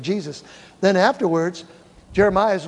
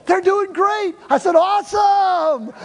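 high, loud triumphant cry; excited shout; 12 semitones higher, 5 dB louder, slower than usual. Retold or imitated. Jack and pastor celebrating the healing, excited. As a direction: shout it out, thrilled.

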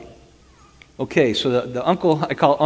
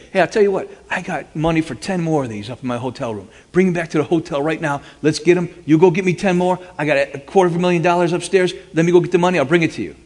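higher, louder eager sales pitch; 6 semitones higher, 4 dB louder, faster than usual. Retold or imitated. Telling the robbers he has money upstairs, eager. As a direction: sell them on the big deal.

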